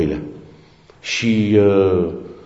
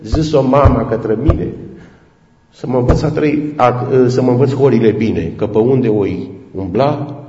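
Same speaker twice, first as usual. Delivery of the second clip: recited folk lyrics; 2 semitones higher than usual. Retold or imitated. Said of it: "adunându-și toate puterile în vocea aceea răgușită și cântând".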